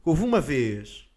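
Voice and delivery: very slow, weighty start; solemn slow storyteller; slow dramatic opener. Acted. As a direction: draw out the setup.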